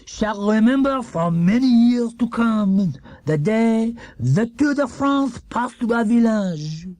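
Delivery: put-on high, slow French-accented oration; Dupont's proud speech. A narrator's reading. Monsieur Dupont addressing the village crowd, proud and grand. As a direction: proclaim it to the crowd. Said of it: "he cried".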